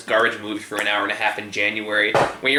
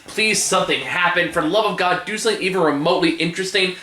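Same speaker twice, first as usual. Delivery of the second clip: exasperated; 5 semitones higher than usual. Retold or imitated. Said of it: "I'm like".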